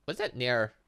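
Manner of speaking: ordinary talk, nothing marked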